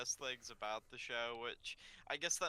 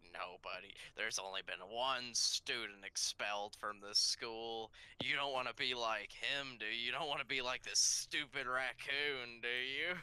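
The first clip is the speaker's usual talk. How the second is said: lower, mildly voiced guilt trip; guilt-tripping principal; 4 semitones lower than usual. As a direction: lean on them with a hint of menace. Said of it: "he just guilted them".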